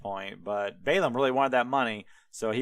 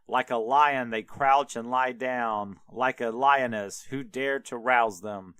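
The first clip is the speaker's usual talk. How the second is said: slow, louder, grand prophetic declaiming; prophetic proclamation; 2 semitones higher, 3 dB louder than usual. Retold or imitated. Balaam possessed by God proclaims blessing over Israel, slow and grand. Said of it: "he shouts that out".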